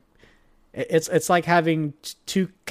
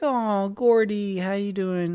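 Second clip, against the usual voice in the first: higher, drawn-out "aw"; doting coo; 5 semitones higher than usual. Retold or imitated. Greeting the little teacup-ish dog, doting coo.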